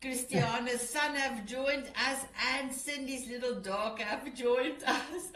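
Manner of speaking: giggling through the words; bright amused laugh in the voice. Real, not acted. Laughing at guests joining.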